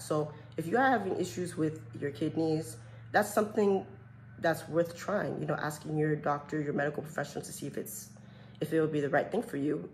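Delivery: a light touch of an ad read, friendly advice to viewers; commercial-like advice. Real, not acted. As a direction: gently pitch it like a health commercial. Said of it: "I sound like a commercial".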